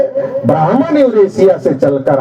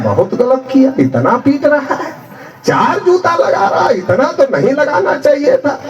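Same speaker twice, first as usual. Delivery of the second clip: a touch higher, mock-concerned tut-tutting; mock sympathetic politician; 4 semitones higher than usual. Rival party man feigning pity to the crowd, mock sympathy.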